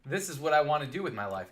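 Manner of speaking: thrilled rookie gushing over his dream job; excited. Retold or imitated. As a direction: gush like a kid who found his dream job. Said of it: "I was so excited".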